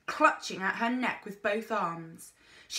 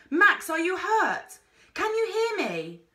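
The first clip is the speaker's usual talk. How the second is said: high, loud frightened questions; frantic sister over her brother; panicked plea; 11 semitones higher, 7 dB louder than usual. A narrator's reading. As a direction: beg him to answer, scared.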